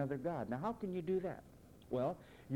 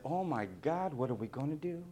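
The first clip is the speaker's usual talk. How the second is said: hammed-up panic building to a loud cry; mock fear, rising and louder to the end; 4 dB louder than usual. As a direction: play a frantic Jesus seeing the soldiers come. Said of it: "What if Jesus would have said".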